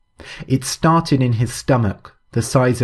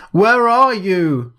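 high, slow, loud howl into the fog; frightened howl through the fog; 9 semitones higher, 4 dB louder, slower than usual. A narrator's reading. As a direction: howl it out, lost and scared. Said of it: "Quentin howled".

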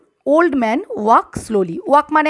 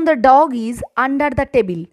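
deliberate word-by-word example; slow example for pupils; slow dictation; much slower than usual. Shown as a demonstration. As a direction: read it out slowly. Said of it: "dictating example sentence".

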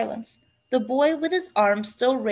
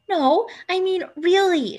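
high, louder insistence; insistent girl, pitched up; persisting; 8 semitones higher, 5 dB louder than usual. A narrator's reading. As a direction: press him for a real answer. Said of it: "she persisted".

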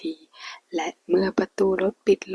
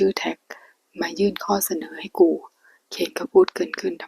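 hushed storyteller reading a Thai romance aloud; whispered story reading. A narrator's reading. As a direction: read the novel in a hushed whisper.

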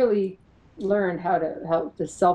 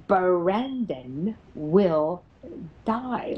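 sarcastic taunt; much slower than usual. Retold or imitated. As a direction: taunt mockingly, stretching every word. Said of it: "The sarcastic little S O B says".

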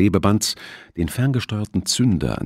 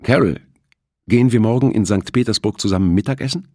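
louder, higher call across the hall; 6 semitones higher, 5 dB louder than usual. A narrator's reading. Security chief calls to Carol while passing, loud call. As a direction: hail her cheerfully from a distance. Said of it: "winkte er und rief".

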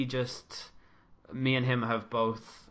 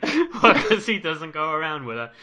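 laughing imitation, higher and louder; high, loud mock retort breaking into laughs; Mark; 6 semitones higher, 13 dB louder than usual. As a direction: quote it through laughter, punching the last word. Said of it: "And Mark is like".

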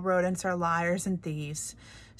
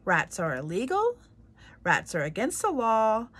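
louder furious royal shout; shouting king; 6 dB louder than usual. Acted. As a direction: shout him down with hands over ears. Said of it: "he shouted".

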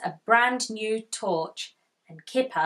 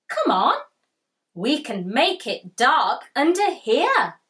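higher, eager call to hide under the blanket; excited Tiger; 4 semitones higher, 4 dB louder than usual. Acted. Tiger urging Kipper under the blanket, excited. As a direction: coax him under the covers, thrilled. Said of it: "he said".

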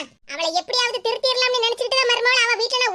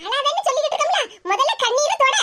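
fake comfort; 4 semitones higher than usual. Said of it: "எப்படி என் நடிப்பு?".

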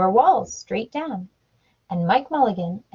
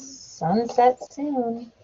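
slow repeat; much slower than usual. Shown as a demonstration. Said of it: "What does that mean?".

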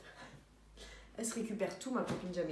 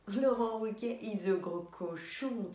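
mock English accent; slower than usual. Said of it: "je faisais l'accent là un peu".

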